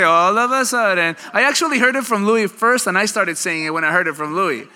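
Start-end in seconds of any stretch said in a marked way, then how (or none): 0.0-1.2 excited repeat. Real, not acted. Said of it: "Who said all of a sudden".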